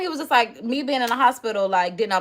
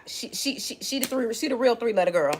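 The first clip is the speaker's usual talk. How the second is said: hushed, breathy stammer, almost no voice; hushed tease; 5 dB quieter than usual. Acted. To her viewers, a hushed teasing secret. Teasing hush about a girl.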